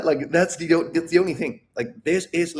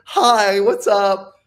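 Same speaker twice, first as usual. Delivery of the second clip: imitated greeting; 5 semitones higher, 7 dB louder, much slower than usual. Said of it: "he was like".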